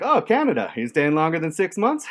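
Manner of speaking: high, loud mock customs officer. Customs officer voiced in story.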